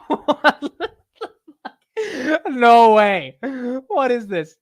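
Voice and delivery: high, loud disbelief; can't believe the ears; shocked outcry, voice way up; astonished. Real, not acted. Reacting to the played pronunciation.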